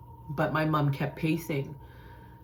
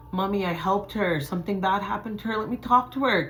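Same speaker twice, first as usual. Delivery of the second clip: urgent plea, climbing higher; pleading; 4 semitones higher than usual. Retold or imitated. Daughter asking mom for the phone, pleading. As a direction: beg mom, pitch rising as it builds.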